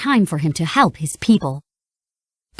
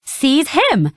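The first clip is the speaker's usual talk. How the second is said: Pete; 6 semitones higher than usual. A narrator's reading. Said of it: "said Pete".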